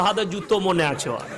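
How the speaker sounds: imitating a tearful wail; half-hearted fake weeping; mock crying. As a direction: keep the pretend lament going. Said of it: "কেমন কাঁদছে বুঝে নেন".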